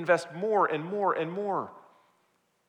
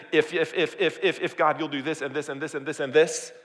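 rattled-off repeated conditions; mocking stammer. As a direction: parody a nervous list of demands. Mocking Jacob's string of conditions.

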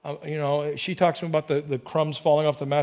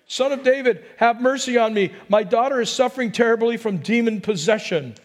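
raised, pleading cry a bit higher; 4 semitones higher than usual. Retold or imitated. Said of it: "crying out".

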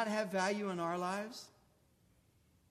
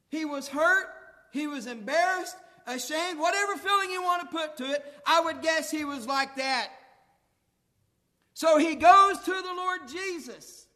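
louder, climbing preacher's build; preaching; 4 semitones higher, 5 dB louder than usual. Acted. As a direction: drive the point home to the pews.

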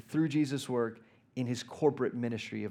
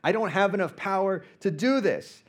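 near tears; 5 semitones higher, 4 dB louder than usual. Retold or imitated. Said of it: "on the verge of tears".

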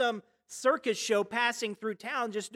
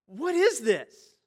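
slow, louder, puzzled asking; baffled question; 2 semitones higher, 5 dB louder, slower than usual. Pretend. Worshipper baffled by a strange new situation, slow puzzled question. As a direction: wonder aloud what on earth this is. Bewildered look-around in church.

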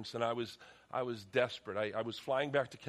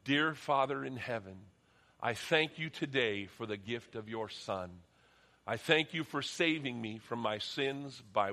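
slow, steady read-aloud prayer; leading a prayer; slower than usual. Acted. Pastor leading the church in a read-aloud prayer, slow and steady. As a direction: lead the room line by line in prayer.

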